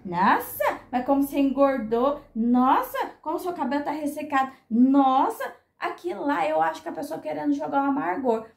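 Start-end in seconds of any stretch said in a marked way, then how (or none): 0.1-5.6 acted tactless remark with a loud, rising "nossa"; mock a sour person pointing out flaws; mal-humored criticism. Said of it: "é mal-humorada, assim, e chega e fala assim". (crítica mal-humorada, imitada)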